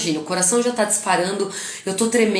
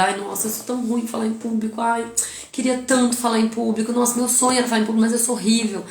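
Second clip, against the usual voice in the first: mock self-pity; 3 semitones higher than usual. Shown as a demonstration. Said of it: "comunicação pro meu cérebro de coitada, de vítima".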